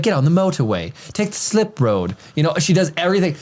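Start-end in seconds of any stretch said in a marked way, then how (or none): 0.0-2.2 lightly imitated British assistant; a hint of British satnav; British Siri. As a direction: give directions in a mild British accent. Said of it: "I have British Siri".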